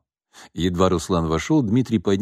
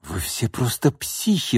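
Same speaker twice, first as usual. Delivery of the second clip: tossed-off; 3 semitones higher, 3 dB quieter than usual. Acted. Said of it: "бросил Руслан".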